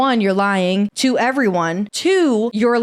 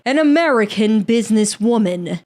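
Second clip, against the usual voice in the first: hammed-up British accent, theatrical emphasis; dramatic British accent. Shown as a demonstration. Podcaster retries the businesswoman line, dramatic British accent. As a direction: redo it dramatically in mock British. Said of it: "it needs to be dramatic".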